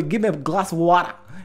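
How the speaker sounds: slow, careful Bangladeshi English. Retold or imitated. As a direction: spell it out slowly in Bangladeshi English. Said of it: "আমরা বলি".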